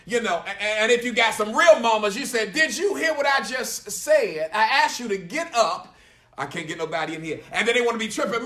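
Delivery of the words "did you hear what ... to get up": mildly raised, slow stern mama voice; authoritative mama. Acted. Mama to a child who didn't move, mildly louder with authority. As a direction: lay down the law a little like a mama. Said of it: "speak a little louder and with authority".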